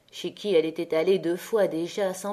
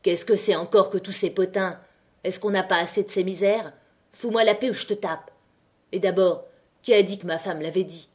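angry, fed up. Acted. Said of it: "furieux d'être tiré de son accablement".

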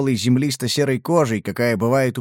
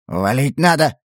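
lightly acted frightened squeak; trembling squeak. A narrator's reading. Гейгер urges the others to flee the creatures, in a mildly acted trembling squeak. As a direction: squeak it out as if the voice weren't yours. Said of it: "дрожащим, будто не своим голосом пискнул".

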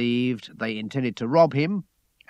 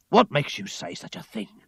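raised-pitch, indignant question; higher, affronted retort; angry reply; 7 semitones higher than usual. A narrator's reading. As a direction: answer back with mild anger. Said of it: "I replied angrily".

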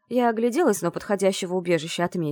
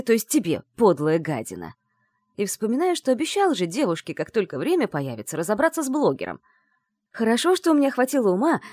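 building anger; 3 semitones higher than usual. Acted. Andrey building to rage.

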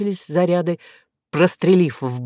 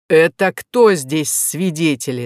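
growling. Acted. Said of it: "зарычал полковник".

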